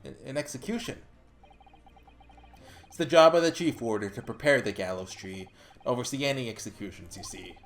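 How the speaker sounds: a light Scottish governor, low and grave; a hint of Scots, telling of the gallows; attempted Scottish accent. Scottish governor describes the executions, low and grave. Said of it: "He's supposed to be Scottish".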